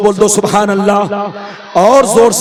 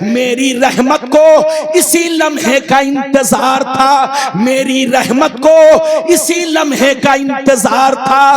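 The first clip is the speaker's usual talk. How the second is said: ringing divine proclamation; full-force preaching. Retold or imitated. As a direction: stretch the key words in sermon cadence. Preacher voices God's answer.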